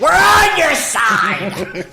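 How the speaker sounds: high, drawn-out squawking shout; Gilbert Gottfried. Acted. Protester hammed up for laughs, exaggerated squawking shout. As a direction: stretch it into a piercing comic yell. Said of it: "Gilbert Godfrey is apparently playing the role".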